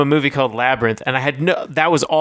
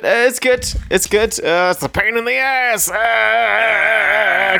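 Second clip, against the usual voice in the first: high, squeaky puppet voice; Muppet voice; 9 semitones higher, slower than usual. Pretend. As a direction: chirp it like a little Muppet. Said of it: "That's my Muppet voice".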